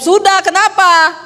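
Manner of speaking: high, loud rising Sulawesi answer with a laugh; Sulawesi rising reply. Retold or imitated. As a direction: snap back with a rising Manado tune. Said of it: "Saya jawab". (jawaban logat Sulawesi, nada naik tinggi)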